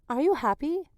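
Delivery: put-on quoting toddler son. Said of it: "and him coming in".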